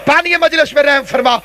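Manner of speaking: impassioned preacher's supplication; fervent prayer. Real, not acted. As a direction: pray aloud for the whole gathering, pleading. Leads congregation in fervent supplication.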